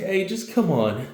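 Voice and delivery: big sister voice. Acted. Older sister herds the kids.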